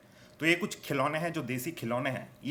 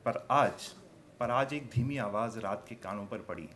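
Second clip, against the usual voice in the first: poetry recitation; 3 dB quieter, slower than usual. Acted. Poet reveals one toy comforting another, hushed recitation. Recites poem on captive toys.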